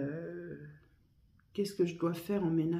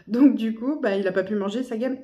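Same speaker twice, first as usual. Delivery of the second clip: suppressing hiccups; 5 semitones higher, 7 dB louder than usual. Real, not acted. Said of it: "pardon, j'ai le hoquette".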